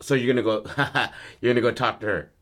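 acted scoffing laugh mid-question; a bitter little laugh breaking the line; incredulous laugh. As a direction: scoff in disbelief as you ask. Son's incredulous laugh at father.

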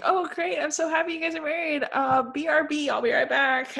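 high, quick, bubbly gush before dashing off; gushing fake cheer. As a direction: Joe fakes delight for the newlyweds, high and rushed. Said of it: "Joe is like".

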